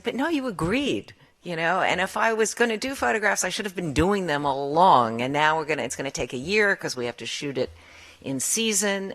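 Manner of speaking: pleading her case against the photo demand; retold indignant protest. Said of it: "I was furious".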